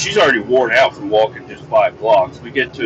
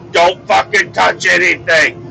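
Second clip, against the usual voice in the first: higher, urgent mock warning; sharp warning; 6 semitones higher than usual. Dad telling kids not to touch needles, sharp warning.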